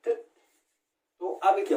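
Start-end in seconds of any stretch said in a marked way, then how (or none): 0.1-0.2 sharp, loud, higher shout to chase him off; angry shooing. Acted. Aunt angrily shoos the boy away from the milk, loud higher shout. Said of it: "मौसी ने बोला".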